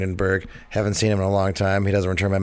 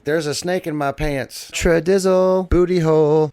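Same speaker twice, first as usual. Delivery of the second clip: inner monologue; 7 semitones higher, 4 dB louder, slower than usual. Retold or imitated. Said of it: "his inner monologue".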